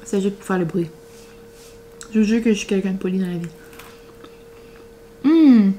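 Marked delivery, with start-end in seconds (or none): 0.0-3.5 fast. Real, not acted. Quick embarrassed excuse.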